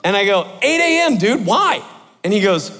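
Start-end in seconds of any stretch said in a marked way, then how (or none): 0.6-1.8 high-pitched, puzzled reply to a buddy; puzzled answer. Retold or imitated. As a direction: answer as if it's obvious, then question it. Retold unsuspecting answer to roommate.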